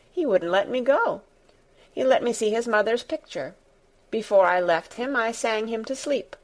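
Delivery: lightly voiced girl, pitched a little up; young girl Mary. Mary telling Martha about Colin, lightly voiced girl. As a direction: tell it as an earnest child, lightly acted.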